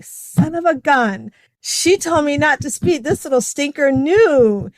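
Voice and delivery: drawn-out, fondly exasperated realization; retold grumble, stretching the key words; mock exasperation. Daughter-in-law in the car realizing she was warned, mock exasperation.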